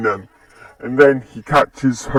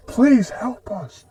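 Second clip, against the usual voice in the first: high, slow pleading voice; pleading girl; 11 semitones higher, slower than usual. Acted. Rabbit girl begs him for help, high drawn-out plea. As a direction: draw out the plea in a high girl's voice.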